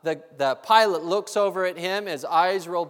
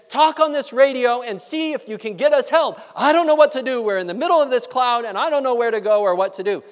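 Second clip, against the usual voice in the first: higher, louder, rushed pleading; panicked; 4 semitones higher, 3 dB louder, faster than usual. Acted. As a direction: blurt it out fast in a panic. Lawyer panics to passenger.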